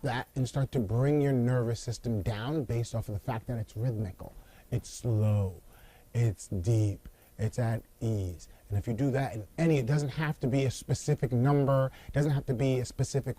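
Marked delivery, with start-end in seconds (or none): 4.7-8.5 slower, lower, easing down; calming. Shown as a demonstration. Coach describing slow, deep breathing, calming. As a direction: soothe them with slow, lowered phrases.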